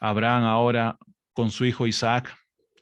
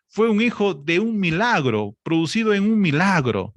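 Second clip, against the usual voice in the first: much higher, impassioned preacher's climb; rising sermon passion, higher and higher; fervent preaching; 6 semitones higher than usual. Acted. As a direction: preach it up to the rafters, pleading. Preacher builds to fervent peak.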